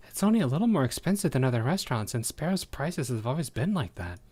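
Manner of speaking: ordinary talk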